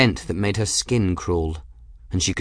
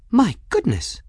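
high-pitched breathed exclamation; breathed awe; 13 semitones higher than usual. A narrator's reading. Folly reacting to the silk weavers' remains, breathed exclamation. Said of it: "Folly breathed".

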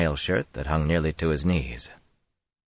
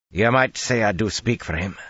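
wary; 6 semitones higher than usual. Acted. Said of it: "replied warily".

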